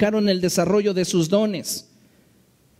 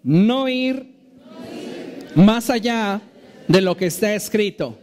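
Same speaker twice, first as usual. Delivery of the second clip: emphatic phrase-by-phrase read-along, settling on "de lo que está escrito"; read-along prompting. Shown as a demonstration. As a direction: lead a congregation reading aloud, pitched up on "No ir", pausing after each phrase. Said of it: "Lea conmigo".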